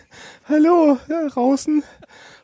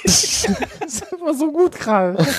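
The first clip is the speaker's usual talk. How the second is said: laughing; slower than usual. Real, not acted. Laughing while praising.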